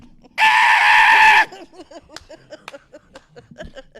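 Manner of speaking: loud high screech like a pterodactyl; pterodactyl shriek. Shown as a demonstration. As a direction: screech it out at full volume. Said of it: "can you recreate it for us?".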